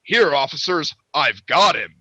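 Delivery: proud, emphatic announcement of OFFICERS and GOT HIM; real emphatic. Retold or imitated. Fighter hands the man over to officers, emphatically. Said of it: "Like, real emphatically".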